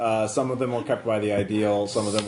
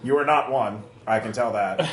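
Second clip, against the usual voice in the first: lightly voiced snarky robot; a hint of a sarcastic machine; sassy robot voice. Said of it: "Oh, it's a sassy robot voice".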